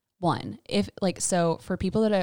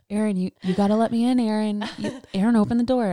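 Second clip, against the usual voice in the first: louder, fast urgent plea; husband pleading at the bathroom door, urgent; 3 semitones higher, 5 dB louder than usual. Retold or imitated. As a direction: press her to open the door. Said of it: "and he's like".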